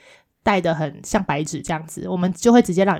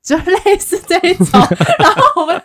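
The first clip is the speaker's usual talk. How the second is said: laughing; 11 semitones higher, 6 dB louder than usual. Real, not acted. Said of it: "laughing while telling story".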